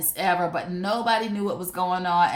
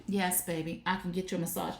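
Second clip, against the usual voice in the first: put-on softer, sugary yes baby; sweet soft agreement; 7 dB quieter, faster than usual. She soothes her boyfriend, soft and sweet. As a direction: coo it gently to him.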